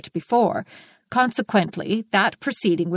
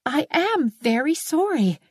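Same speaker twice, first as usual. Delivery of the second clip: slow, high and firm; 8 semitones higher than usual. A narrator's reading. Anne repeats her apology to the neighbour, firmly. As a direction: stand your ground, slowly. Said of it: "repeated Anne firmly".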